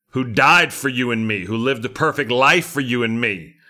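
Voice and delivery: impassioned sermon climax; preaching at full force. Acted. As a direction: pour it out in a crescendo. Fervent preaching crescendo.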